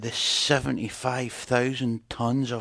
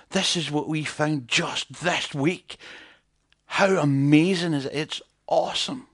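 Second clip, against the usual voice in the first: a hint of an American prospector boasting; mock American; 3 semitones higher than usual. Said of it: "'Cause they're American".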